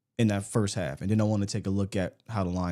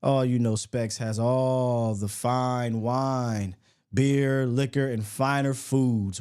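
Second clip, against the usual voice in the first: stretched-out, lightly polished ad read; sponsor ad read; slower than usual. Real, not acted. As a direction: sell it casually, drawing out key words.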